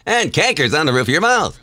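younger captain voice; middle-aged voice. Acted. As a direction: take a few years off. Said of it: "do that as a middle-aged guy".

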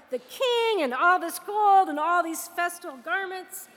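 mildly hammed-up affronted general, punching key words; acted outrage. Snubbed general venting about the prophet, acted outrage. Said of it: "Naaman is so angry, he's outraged".

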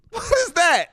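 high-pitched outraged question; incredulous exclamation. Acted. Preacher reacts to Jesus being told to go, incredulous exclamation. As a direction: throw it out in disbelief.

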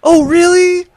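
high, loud sneering sarcasm; mock the smug vampire king; sarcastic vampire king. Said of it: "he was really sarcastic for a vampire king".

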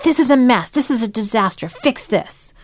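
mock frantic complaint, tossing the mess over; imitating a panicked complainer; exasperated dumping. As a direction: dump it on them in a huff. Dumping a problem on someone.

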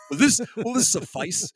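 mock polite offer. He offers the Russian chain to the safety guys. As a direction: hold up the chain hopefully.

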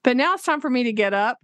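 ordinary talk, nothing marked

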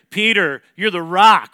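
loud emphatic declaration; God naming Peter. Acted.

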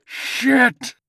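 very high, loud curse; pained scream. A narrator's reading. Old man curses his pierced foot, pained scream. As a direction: shriek the swear word in pain. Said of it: "he screamed".

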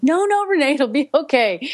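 high-pitched imitation of soothing friends; retold, high-voiced reassurance; calming friend. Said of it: "trying to calm me down".

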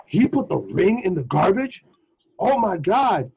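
imitating an appalled girlfriend, swooping pitch; disbelieving question, then an exaggerated gasp of words; mock scandalized.

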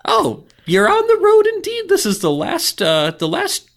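very high goblin voice. Acted. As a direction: squeak it like a goblin. Goblin gatekeeper.

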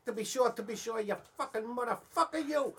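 a hint of stage Irish accent; mock Irish accent. Pesci badly doing an Irish accent, only lightly Irish. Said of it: "Joe Pesci was gonna play The Irishman".

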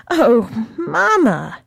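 slow pleading repeat; blurting out, calmer. Acted. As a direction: ease off a little on the repeat. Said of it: "blurting out".

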